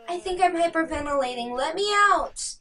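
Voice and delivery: fast, then a loud high plea to be let out; panicked plea. Acted. Trapped Paul begs the killer, rising panic. Paul hyperventilating in steam room.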